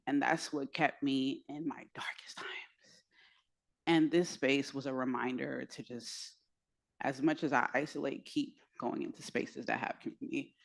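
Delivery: hushed confession. Real, not acted. Sharing her trauma with the room, hushed. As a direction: let it drop to a hush.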